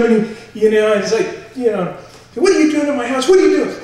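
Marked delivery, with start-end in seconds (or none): 2.3-3.8 loud, high-pitched retold yell; angry confrontation. Homeowner confronts burglar inside his house, retold angry yell. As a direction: act out shouting down an intruder.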